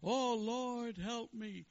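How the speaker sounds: put-on high, pleading rabbi in a Jewish accent; Rebbe crying out. Rebbe at the altar crying out to God, high voice. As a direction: mock-desperate high prayer. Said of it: "the Rebbe cries out to God".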